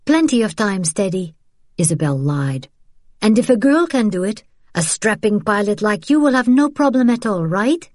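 brightly coaxing, lightly voiced woman; encouraging woman. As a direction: cheer him on with a bright lie. Isabel reassuring Teddy.

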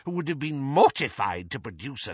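put-on scandal-loving old lady, leaping high; swooping elderly busybody; gossiping old aunt. A narrator's reading. Muriel ignores him, goes on.

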